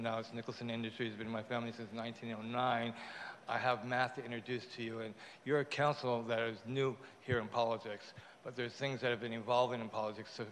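speaking through mouth stitches; words slurred by fresh stitches; talking with stitches. Real, not acted. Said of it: "I got stitches in my mouth".

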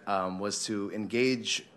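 ordinary delivery

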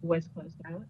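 fading in and out; sitting too far from the mic; bad connection. Real, not acted. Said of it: "you keep kind of fading in and out".

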